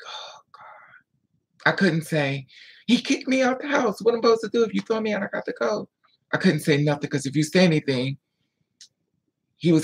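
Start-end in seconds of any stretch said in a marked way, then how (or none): 0.1-1.7 hushed, whispered retold thought; imitated helpless whisper to oneself; whispered dismay. Retells silent despair, cannot speak. 2.9-5.9 high-pitched retold plea; high, urgent mock explanation; imagined protest. Voices what she couldn't say.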